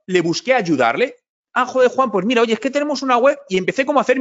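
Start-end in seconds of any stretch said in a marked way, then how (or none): 1.5-3.4 higher and fast, imitating an eager contact; mock excitement as a networking contact asks for help; eager reply. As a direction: play the stranger suddenly opening up. Contact reacts to his offer.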